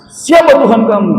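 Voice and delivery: loud, high, stern interrogation; harsh angel question. Retold or imitated. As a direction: demand it like a fierce angel questioning the dead. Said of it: "semua dengan nada yang keras". (pertanyaan malaikat yang keras dan tinggi)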